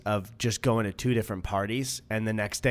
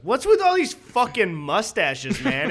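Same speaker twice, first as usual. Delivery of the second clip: loud heckle; 7 semitones higher, slower than usual. Retold or imitated. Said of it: "loudly to the whole group goes".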